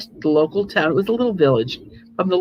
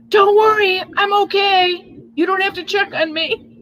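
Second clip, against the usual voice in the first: very high, fed-up, frustrated yell; 14 semitones higher than usual. Retelling what she yelled to her husband upstairs: retelling a frustrated yell. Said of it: "just out of frustration, I yelled".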